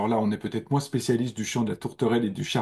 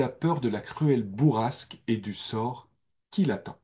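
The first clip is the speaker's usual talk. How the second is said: slow recital of the verse; poem reading. Shown as a demonstration. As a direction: recite the sonnet slowly to the class. Reads the sonnet's summer text.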